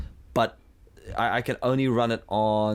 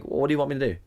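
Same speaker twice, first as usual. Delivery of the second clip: higher-pitched mock-huffy retort; 5 semitones higher, much faster than usual. Sulking app talks back to the user, mildly huffy. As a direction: play a put-upon app answering back, pitched up. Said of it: "sits there in a huff".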